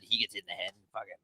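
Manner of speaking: put-on thick Boston guy accent, heated bar-argument rant. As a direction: play a worked-up Boston townie in his Boston accent. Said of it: "we're just doing Boston, Boston accents".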